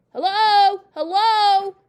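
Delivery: very loud, high parrot calls; parrot calling out. A narrator's reading. Parrot calling down the chimney to Matilda, loud calling. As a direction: call down like a talking bird. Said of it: "the bird called down to her".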